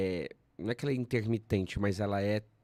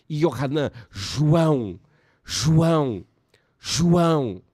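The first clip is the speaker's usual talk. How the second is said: rising, louder calls of the name, higher; proclaiming loudly; 3 semitones higher, 7 dB louder, much slower than usual. Retold or imitated. Zechariah's voice released, proclaiming.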